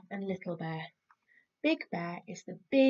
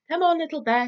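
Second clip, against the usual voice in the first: Big Bear calling out; 9 semitones higher, 9 dB louder, much faster than usual. Acted. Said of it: "said Big Bear".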